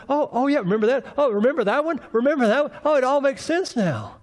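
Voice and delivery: high, excited oh-remember-that; light bulb going on, delighted; dawning realization. Retold or imitated. Preacher voices apostles realizing after the resurrection, high and excited. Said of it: "It's like".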